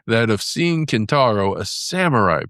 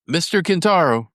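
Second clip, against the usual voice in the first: faithful animals; 6 semitones higher than usual. Acted. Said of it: "said the faithful animals".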